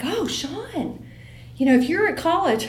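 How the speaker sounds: playing the fussy mom at her son; mock lecturing mom. Mom lectures her giant son about video games, lightly mock-stern. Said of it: "And I'm like".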